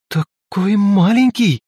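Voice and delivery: drawn out in disbelief: маленький; surprised. A narrator's reading. Velga amazed the great god is so small, slow surprise.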